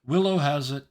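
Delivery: crystal-clear call. Acted. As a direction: ring it out as if right beside the listener. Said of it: "you hear crystal clear".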